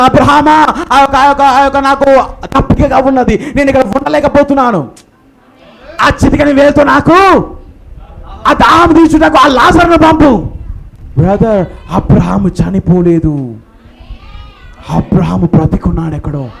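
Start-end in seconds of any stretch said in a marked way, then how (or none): 0.0-10.5 pleading rich man. Acted. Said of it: "ధనవంతుడు అడుగుతున్నాడు".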